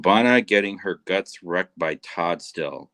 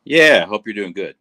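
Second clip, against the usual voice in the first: loud; 2 semitones higher, 7 dB louder than usual. Real, not acted. Signing off to streamer.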